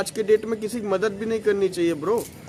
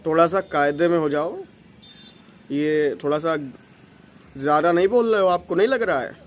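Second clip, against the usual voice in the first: low, cool and firm talking-to; lightly firm, lower voice; tight, firm; 4 semitones lower than usual. Shown as a demonstration. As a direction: put the aunty in her place, coolly. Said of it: "मैं बताता हूँ कैसे बोला था".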